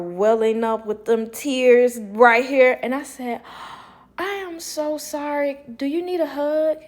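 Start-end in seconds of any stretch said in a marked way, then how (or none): 4.2-6.8 higher-pitched, gushing sympathy; re-enacted tender concern; sympathetic. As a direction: comfort someone about to cry. Comforts tearful woman.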